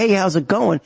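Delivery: sarcastic cheery hi; fake friendly greeting. Mocking the polite greeting you should never give. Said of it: "you don't smile and say".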